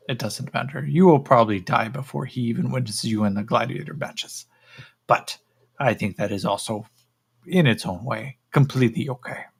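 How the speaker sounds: measured, matter-of-fact doom; lightly voiced alien, indifferent to the captive's death; dismissive creature. Creature dismisses captive's likely death, lofty creature voice.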